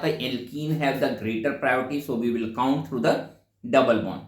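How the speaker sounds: very slow, word by word, for note-taking; slow dictation. Shown as a demonstration. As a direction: dictate it slowly so students can write. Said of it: "मैंने कहा था".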